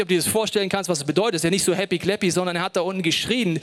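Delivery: ordinary talk, nothing marked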